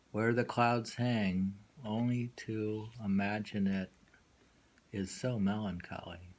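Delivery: unhurried recital with a hushed middle line. Acted. Reads a poem aloud.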